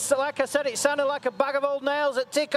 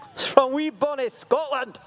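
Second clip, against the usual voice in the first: put-on Scottish accent; 2 semitones higher than usual. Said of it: "that was my Scottish accent".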